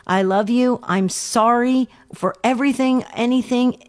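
gentle apology. Acted. Host shows caller how to reach her son, gently. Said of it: "in a very gentle way and say".

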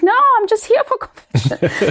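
very high pleading tone; high retold reply. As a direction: answer the priest meekly through tears. Retelling her reply to priest.

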